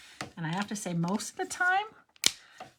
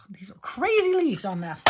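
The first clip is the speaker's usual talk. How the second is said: whisper; 4 semitones higher, 4 dB louder than usual. Real, not acted. Awed by the die design.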